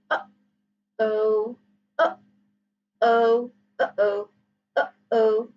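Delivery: "uh, oh" cut by a closed throat; "uh, oh" with a catch in between; glottal stop. Shown as a demonstration. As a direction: stop the breath sharply between "uh" and "oh". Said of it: "glottal stop occurs when the space".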